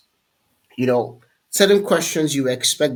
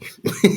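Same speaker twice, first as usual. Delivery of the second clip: laugh. Real, not acted. Laughs after remark about hair.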